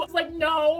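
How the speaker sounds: tearful, real crying on the words; choked up, voice catching. Real, not acted. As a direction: close to tears as she says it. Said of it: "I'm crying just thinking about it".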